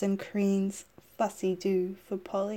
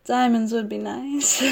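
Monroe voice; 3 semitones higher, 3 dB louder than usual. Acted. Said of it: "in Monroe's breathy voice".

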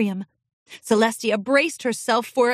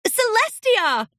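higher, slow delighted call; brightening up; 11 semitones higher, 3 dB louder, slower than usual. Acted. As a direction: greet with sudden cheer. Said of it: "brightened like a switch had been flipped".

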